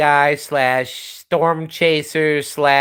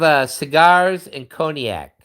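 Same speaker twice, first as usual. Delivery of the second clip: normal talking voice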